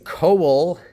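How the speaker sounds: "coal" slowly as "co-wul"; two syllables. Shown as a demonstration. Teacher proving O is a diphthong, two-syllable "coal". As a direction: let "coal" glide into a second syllable. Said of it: "it ends up with two vowel or two syllables".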